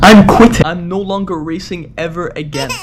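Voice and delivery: loud then choking up; hammed-up tearful vow; dramatic vow. Vows to quit if he loses.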